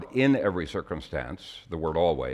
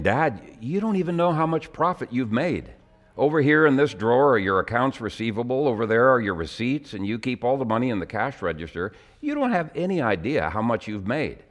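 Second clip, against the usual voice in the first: a son's urgent, higher-pitched pleading; exhorting son; 5 semitones higher than usual. Retold or imitated. Son scolding his dad about money. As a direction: press your father hard, voice up high. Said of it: "kind of exhorted his dad".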